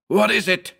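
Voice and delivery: high, urgent question; frightened cry. A narrator's reading. Narrator clutching Howard's arm, a high anxious cry. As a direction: cry it out, pitched far up. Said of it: "I cried".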